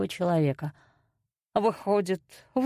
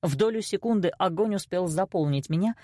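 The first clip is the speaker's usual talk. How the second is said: ordinary delivery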